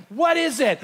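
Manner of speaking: high, loud, panicked question; freaked-out cry. Retold or imitated. Storyteller screams back at the thing, acted panic. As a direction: re-enact a startled, terrified outburst. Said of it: "and I freak out".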